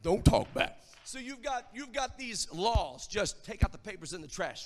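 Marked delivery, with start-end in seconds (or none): 0.0-0.8 a hint of a deep baritone; lightly put-on baritone dad line. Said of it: "deep baritone voice say".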